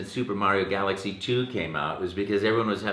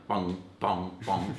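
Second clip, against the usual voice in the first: video game bong; 4 dB quieter, much slower than usual. Retold or imitated. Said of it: "except, you know".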